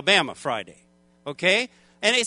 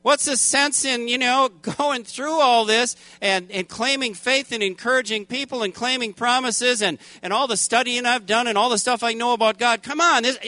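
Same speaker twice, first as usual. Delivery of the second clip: higher, complaining protest at God; attitude problem; 4 semitones higher than usual. Retold or imitated. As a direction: argue with God, mildly indignant. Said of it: "starting to get an attitude problem".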